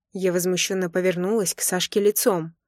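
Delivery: usual speaking voice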